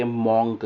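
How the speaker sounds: મોન્ક with a long open O and a sounded K; common mispronunciation. Shown as a demonstration. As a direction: say મોન્ક with an 'aw' vowel, ending in a hard k. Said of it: "મોન્ક એ ખોટું છે pronunciation". ('મોન્ક'માં પહોળો 'ઓ', છેડે 'ક' બોલીને ખોટો ઉચ્ચાર)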